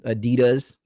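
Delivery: Adidas stressed on DEE; American pronunciation. Shown as a demonstration. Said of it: "that's how we call it".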